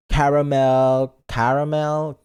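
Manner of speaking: "caramel" in three syllables, first vowel as in cat; varying pronunciation. Shown as a demonstration. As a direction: say "caramel" as KA-ruh-mel. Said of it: "I say it completely different".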